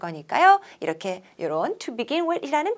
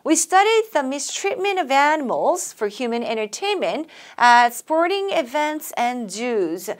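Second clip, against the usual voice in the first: slow, phrase by phrase; chunked model reading; 2 semitones higher, much slower than usual. Shown as a demonstration. Teacher chunking a sentence for students, slow. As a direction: read in meaning chunks for learners. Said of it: "also 끊고요".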